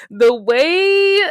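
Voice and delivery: a loud, stunned lead-in; incredulous exclamation. Real, not acted. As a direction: gasp it out in disbelief. Exclaiming at the crying scene.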